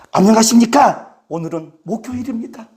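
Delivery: fuller-voiced imitation of a video intro; YouTuber's greeting. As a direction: open firmly, then ease off. Imitates the YouTuber on another day.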